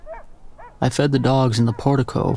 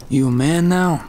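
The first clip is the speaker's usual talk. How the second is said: higher mocking sneer; 4 semitones higher, slower than usual. A narrator's reading. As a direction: sneer the question at him. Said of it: "The sneer was still there".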